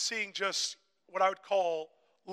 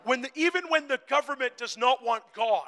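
louder preaching, building in force; raised pulpit voice; impassioned preaching; 4 semitones higher, 10 dB louder than usual. Real, not acted. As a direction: preach it out with rising conviction.

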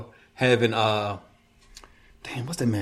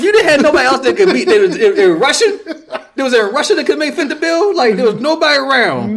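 laughing through the words, high; cracking up while talking; 10 semitones higher, 4 dB louder than usual. Real, not acted. Mocking casting choice, laughing.

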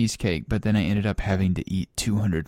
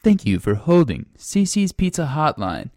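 hotline recording voice; 5 semitones higher than usual. Acted.

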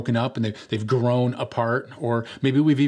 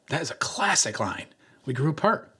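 higher mock-amazed echo of the line; 5 semitones higher than usual. Roommate ridicules his friend's breakup excuse, mocking. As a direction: savour the cliché teasingly, voice lifting at the end.

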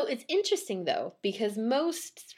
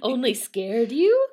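loud, raised, dismissive query; unsympathetic; 4 semitones higher, 8 dB louder than usual. A narrator's reading. Peddler to scared man, unsympathetic. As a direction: question him without any sympathy.

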